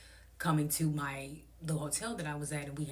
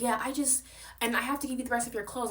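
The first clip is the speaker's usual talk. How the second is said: high, quick mock voice; high fast mock voice of the host; 8 semitones higher than usual. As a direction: rattle it off like the host. Voicing the host in argument.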